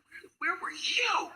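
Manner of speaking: high, drawn-out mock outrage; imitated yelling boss. Angry boss greets late manager, high mock yell. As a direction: demand it high-pitched and slow, without much volume. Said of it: "He was yelling at me".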